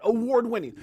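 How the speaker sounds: punchy announcer call, award on top. Shown as a demonstration. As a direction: call it out like a hype man. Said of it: "I should start saying that".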